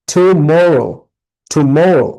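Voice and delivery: Tomorrow with firm weight on MO; broken into syllables. Shown as a demonstration. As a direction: model Tomorrow as to-MO-rrow. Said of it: "আমরা সুন্দরভাবে ভেঙে ভেঙে দিয়েছি". (Tomorrow ভেঙে, MO-তে জোর দিয়ে বলা)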